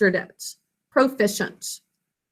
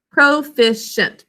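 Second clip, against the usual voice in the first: slow dictation; slower than usual. Shown as a demonstration. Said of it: "Pick up your pencil and write it".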